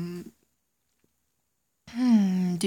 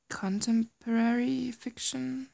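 whisper; 5 semitones higher than usual. Real, not acted. Stumbled word, retries it.

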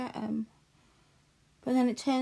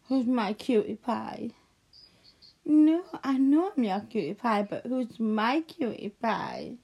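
lovey dovey; 3 dB louder than usual. Acted. Cooing baby talk to little one.

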